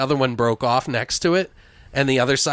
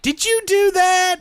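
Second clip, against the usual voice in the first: much higher, startled imitation; wife's alarmed question; 3 dB louder than usual. Husband quotes spooked wife, high startled voice. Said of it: "she's like".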